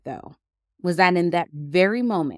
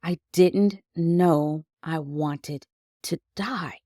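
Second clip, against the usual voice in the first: slow, numb repetition; a hushed, stunned echo of the thought; slower than usual. Retold or imitated. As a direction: let it sink in, dazed and slow. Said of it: "I was numb and stunned".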